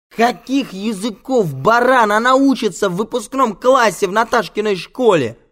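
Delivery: high, loud outraged yell; incredulous full-voice tirade; furious shouting. Acted. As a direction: yell at him as an idiot, stretching the first words. Furious row over girl's age.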